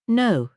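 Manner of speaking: a sharp, firm no; firm cutoff. Acted. Lady Patricia cutting off the inspector firmly. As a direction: cut him off hard, high and firm. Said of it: "she cut him off firmly".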